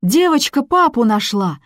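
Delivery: high, loud strained woman's cry; anguished cry. A narrator's reading. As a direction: cry out with heartbreak. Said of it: "надрывно подхватил женский".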